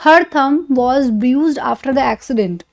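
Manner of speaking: "Her thumb was bruised after the accident" said very slowly, word by word; drawn out for students to copy; very slow example. Shown as a demonstration. Teacher reads example sentence to class, very slowly. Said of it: "example sentence".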